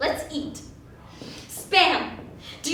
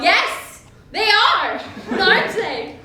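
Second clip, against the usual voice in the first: higher, louder, laughing through it; 3 semitones higher, 5 dB louder than usual. Acted. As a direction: giggle while joking. Laughing at her own hiccups.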